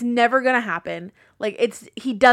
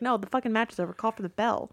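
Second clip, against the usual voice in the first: a distant, quieter voice, like through a headset; voice in his ear; 8 dB quieter than usual. Retold or imitated. Producer in the referee's earpiece, quietly insisting the match is over. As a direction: play the unseen producer murmuring in the ear.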